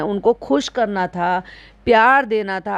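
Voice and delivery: usual speaking voice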